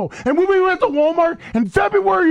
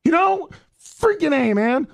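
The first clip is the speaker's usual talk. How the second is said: venting, fed up with the criticism; sick of the negativity and letting it out; aggravated; 2 semitones higher than usual. Real, not acted. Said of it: "I'm getting so aggravated".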